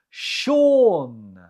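"Sean" pronounced "shawn", drawn out and falling; model pronunciation. Shown as a demonstration. Teacher repeats the quiz answer for learners, "Sean" pronounced SHAWN. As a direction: give "Sean" as one clear syllable, SHAWN. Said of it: "How do you say it?".

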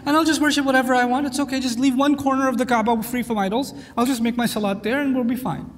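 mock easygoing proposal; casual compromise. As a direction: toss it off like an easy deal. Voicing a careless compromise.

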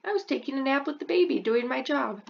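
high, fast, indignant dragon. Acted. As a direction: protest innocently as the dragon. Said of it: "the dragon goes".

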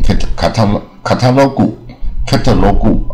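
"catalog" broken into full syllables ending in "gu"; nonstandard catalog. Shown as a demonstration. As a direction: say "catalog" with a tacked-on "gu" at the end. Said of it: "很多我刚才讲过念".

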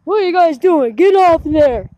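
imitated scolding onlooker. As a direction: lightly imitate someone yelling at kids. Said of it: "you can hear him say".

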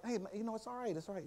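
high, soft consoling voice; retold soothing. Teacher to a crying visitor, gently soothing. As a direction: gently hush someone upset.

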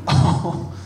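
put-on spoiled rich kid voice, snooty and demanding; entitled private school drawl. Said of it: "my impression of an entitled rich kid with gay parents".

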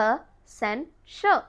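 Essential stretched very slowly, ending "shul"; slow teacher demo; slow drawn-out model. Shown as a demonstration. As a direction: draw out Essential slowly for learners. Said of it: "but it's actually".

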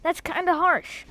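hammed-up British accent for a game character; playful fake British lilt. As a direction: put on a mock British voice. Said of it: "was that a fake British accent?".

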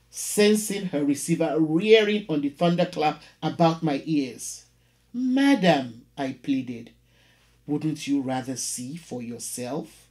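measured, dramatic poetry reading; poem reading. Acted. Teacher reading a poem to the class, dramatic recital. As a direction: read it like a performed poem, every image weighed. Reads poem Telephone Conversation aloud.

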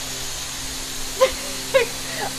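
airy unvoiced giggle; breathy giggle. Real, not acted. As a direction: giggle at being drenched. Laughing while soaked.

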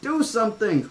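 put-on high, panicked girl's scream. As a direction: shriek for help, pitched high. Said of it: "Alexis screamed".

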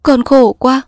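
high, hiccuping sob of misery; sobbing cry. Acted. Daughter sobbing to her mother, tearful. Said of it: "nàng nấc lên".

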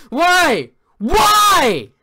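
high, loud wail of despair; anguished wail. Real, not acted. Gamer wailing why after dying again. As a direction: wail at the screen.

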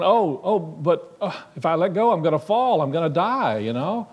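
a man dangling from a branch, pleading; man clinging to a branch protests to God in comic panic; mock panic. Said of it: "he's just terrified".

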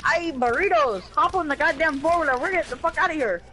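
hammed-up Mexican-American accent, getting agitated; mock Mexican accent. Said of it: "I'm Mexican".

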